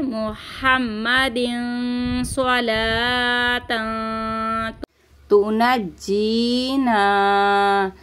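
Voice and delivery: slow Arabic recitation with tashdid. Shown as a demonstration. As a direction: recite slowly, pressing the doubled jeem. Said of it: "जीम के ऊपर देखिएगा तशदीद है".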